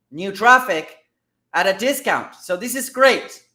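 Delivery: lifted, punchy enthusiasm; mildly excited, emphatic delivery; a little excited. Real, not acted. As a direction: get a bit carried away by great news. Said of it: "I get a little bit excited".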